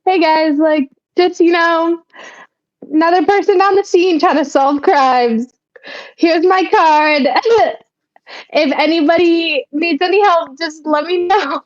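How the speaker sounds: smooth, charming pitch to the cops; flirty charm. Pretend. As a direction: try to charm them. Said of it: "rizz 'em up in a way and be like".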